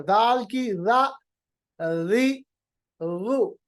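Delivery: را, ری and رو said very soft and smooth; slow, gentle ذ with each vowel. Shown as a demonstration. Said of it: "بہت نرم، بہت ملائم". (بہت نرم اور ملائم آواز میں ذ)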